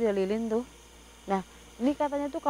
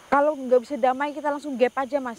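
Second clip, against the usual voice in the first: loud call over the wind; shouting over wind; 2 semitones higher, 6 dB louder than usual. Real, not acted. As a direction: project hard over the gale. Wind roaring around them.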